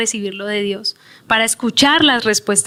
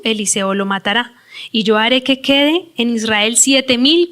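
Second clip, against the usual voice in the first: measured reading of Bible verses, slowing at the end; scripture reading. Acted. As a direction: read the verses out to the congregation. Reads Bible passage aloud.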